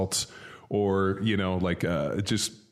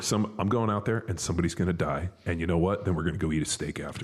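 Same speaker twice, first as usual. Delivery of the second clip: even keel; 3 semitones lower than usual. Retold or imitated. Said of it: "even keel".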